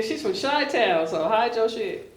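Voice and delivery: playful announcer punch on Chi-Town; joking hype intro. Real, not acted. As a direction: tease it like a host's big intro. No, I'm just playing.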